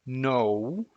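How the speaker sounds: no said with an English glide, jaw closing; English style no, lips rounding at the end. Shown as a demonstration. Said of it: "Let's say it slowly".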